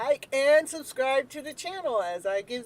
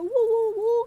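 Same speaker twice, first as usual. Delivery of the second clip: high, loud woo woo; whooping for showtime; excited whoops; 11 semitones higher, 11 dB louder than usual. Real, not acted. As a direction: cheer like a crowd. Cheering again.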